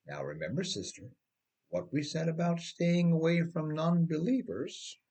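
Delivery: lightly voiced pastor warning a church sister; pastor's reminder. Pastor warns church sister, lightly voiced preachy reminder. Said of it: "The pastor or bishop usually tells them".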